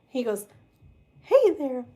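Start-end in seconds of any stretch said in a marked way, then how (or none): 1.2-1.9 high squeaky cartoon mouse voice; Mickey Mouse. Tarot reader imitating a friend's Mickey Mouse voice. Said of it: "Noah do his Mickey Mouse voice".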